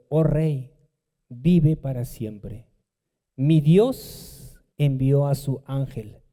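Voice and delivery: calm, unhurried, lightly voiced reply; serene and clear. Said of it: "una voz serena, una voz tranquila pero clara". (voz serena, tranquila pero clara)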